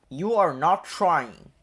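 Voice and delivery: loud, slow, cross driver's shout. A narrator's reading. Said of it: "he shouted at Gordon".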